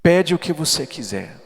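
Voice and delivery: slow, booming invitation from the altar; apostle's call. Retold or imitated. Apostle Edilson at the altar calling people, slow loud call. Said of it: "e ele falou assim".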